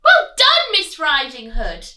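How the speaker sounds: very high, loud cheering piglet; joyful piglet yell. Acted. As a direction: cheer her on. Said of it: "and yelled".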